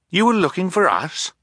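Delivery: high-pitched amazed question. A narrator's reading. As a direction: ask it in high astonishment. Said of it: "Klaus asked in amazement".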